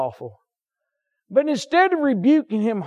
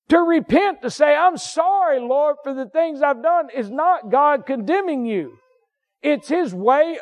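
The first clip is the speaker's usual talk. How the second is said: fervent preaching; 6 semitones higher than usual. Real, not acted. Preaching at full force.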